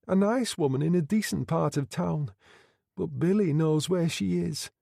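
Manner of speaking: put-on high girlish voice, steadier now; the girl, regaining composure, pitched high; composed young woman. A narrator's reading. Girl explains her daughter.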